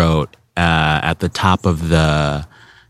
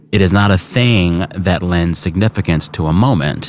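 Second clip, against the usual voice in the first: quote reading. Acted. Reads out quote from book.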